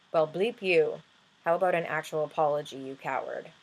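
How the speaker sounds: firing back at the commenter in mock anger; angry retort. To the man who deleted his comment, an indignant read. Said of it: "I was pissed off".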